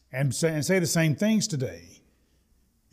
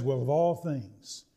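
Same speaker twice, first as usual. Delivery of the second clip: grumpy husband; 4 semitones lower, slower than usual. Retold or imitated. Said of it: "hard-to-please husband complains".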